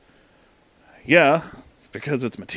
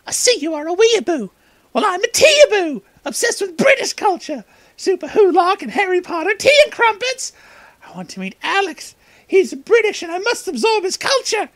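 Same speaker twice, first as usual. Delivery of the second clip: much higher, squeaky fake British accent; terrible fake British accent; 4 dB louder than usual. Annoying teaboo girl pesters the heroes, in a squeaky fake British accent. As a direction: ham up a bad fake British accent, way up high. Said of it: "in a high-pitched, terrible fake British accent".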